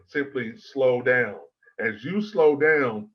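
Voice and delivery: measured, deliberately slow delivery. Shown as a demonstration. Coach advising speakers with accents, slowed right down. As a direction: draw the words out slowly. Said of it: "is to slow down when you speak".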